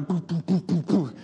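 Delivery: string of short "boo" sounds; imitated rapid puffs. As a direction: pop out little boos, one after another. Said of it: "runs down the line going".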